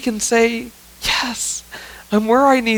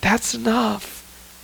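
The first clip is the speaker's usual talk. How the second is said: "That's enough" softer and slow; tender softer slow close; soft, slow reassurance; 7 dB quieter, much slower than usual. Shown as a demonstration. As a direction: ease it out gently and softly, slowly. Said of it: "And you know what?".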